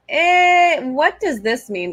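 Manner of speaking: a high, baffled "eh" then a slow question; puzzled reaction. Retold or imitated. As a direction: act out being confused by a job title. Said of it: "the only one that gives me, like".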